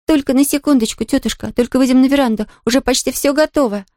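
put-on high, bright girl's voice, teasing; a playful child keeping a surprise; little girl Pollyanna. Girl teasing her blindfolded aunt, high playful voice.

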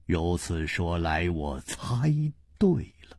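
压低声音，轻轻说出推断; 低而轻，边想边说; 低声沉吟. Acted. Chu answers quietly in dialogue. (沉吟着低语)

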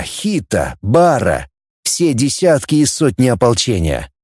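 ordinary delivery

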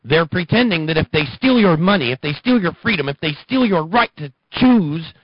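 impassioned. Real, not acted. Impassioned warning.

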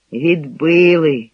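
slow, drawn-out sigh on the word. A narrator's reading. Sergeant on news from the front, sighing. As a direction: let the word out slowly, like a sigh. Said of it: "зітхнув сержант".

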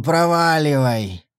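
slow growling command; growled. A narrator's reading. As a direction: growl it slowly. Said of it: "прорычал Сэм".

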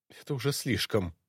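a slightly shaky, hushed voice; trembling voice. Acted. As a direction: let the voice quiver lightly. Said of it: "произнесла Ирина дрожащим голосом". (дрожащим голосом)

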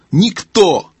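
high, emphatic call; owl's repeated cry. Acted. Owl answering deaf gnome, crying out.

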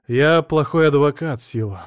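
ordinary delivery

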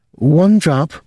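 high, loud and firm; firm command. Acted. Jean rationing Rudolph's drink, firm high command. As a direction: put your foot down on one drop.

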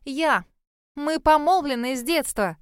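high, insistent outburst; crying out. A narrator's reading. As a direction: exclaim it, staking your claim. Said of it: "выкрикнула Шерри".

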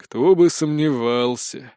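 slow, resigned sarcasm; sighed. Acted. Spirt answers the blonde's denial, sighing slowly. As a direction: drag it out on a weary sigh. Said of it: "вздохнул Спирт".

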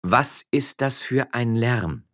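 slow, calm, dignified question. Acted. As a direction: rise above the noise with poise. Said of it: "eine ruhige, würdevolle und anmutige Stimme". (ruhig und würdevoll)

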